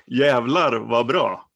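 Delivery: "Jävlar vad bra" said slowly, each Swedish word spelled out clearly; slow Swedish demo. Shown as a demonstration. Teacher repeating "Jävlar vad bra" slowly for his guest. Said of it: "Say it one more time".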